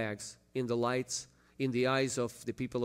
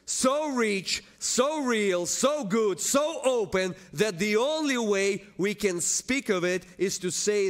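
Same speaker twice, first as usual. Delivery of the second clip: impassioned preaching; 8 semitones higher, 6 dB louder, slower than usual. Real, not acted. Preacher extols God's oneness to congregation, impassioned preaching. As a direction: preach it out in ringing, building repeats.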